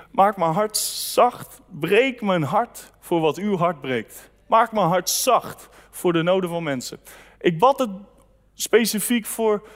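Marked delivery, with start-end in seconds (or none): 0.1-1.6 retold prayer. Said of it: "heb ik gebeden". 1.7-4.3 slow, earnest prayer with "breek" leaned on. Retold or imitated. Preacher quoting the prayer he prayed on the trip, slow and earnest. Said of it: "heb ik gebeden". 4.5-7.0 retold prayer. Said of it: "heb ik gebeden".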